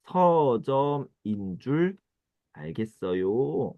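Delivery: very slow, spaced-out demo phrase. Shown as a demonstration. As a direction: spell out each part for learners. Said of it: "그럴 때". (아주 천천히 또박또박)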